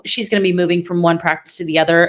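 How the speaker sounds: talking while chewing gum; words round a wad of gum. Real, not acted. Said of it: "I have gum in my mouth".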